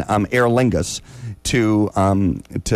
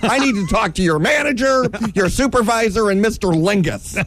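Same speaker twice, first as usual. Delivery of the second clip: high, camp diva demanding the manager; flamboyant diva; 8 semitones higher than usual. Retold or imitated. A bumped traveller to the airline clerk, high camp diva demand. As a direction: demand the supervisor like an outraged queen. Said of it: "I turned into the biggest gay guy you've ever seen".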